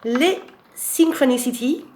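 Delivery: card name read slow in a put-on Scottish accent; drawn out in a jokey Scottish lilt; mock Scottish accent. Shown as a demonstration. Reading a card aloud in a mock Scottish accent. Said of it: "Avec mon accent, euh, écossais".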